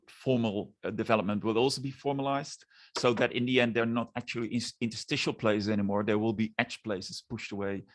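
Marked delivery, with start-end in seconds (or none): none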